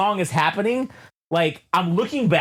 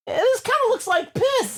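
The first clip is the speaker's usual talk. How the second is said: mock disgust. Retold dream, disgusted.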